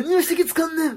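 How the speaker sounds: high-pitched mock Kansai telling-off; Kansai-dialect outburst. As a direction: imitate an angry line in Kansai dialect. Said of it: "急に関西弁になるんですよ". (関西弁でキレる真似)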